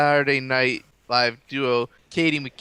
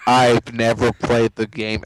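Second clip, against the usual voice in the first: alien voice; 4 semitones lower, 3 dB louder than usual. Acted. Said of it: "talking in an alien voice".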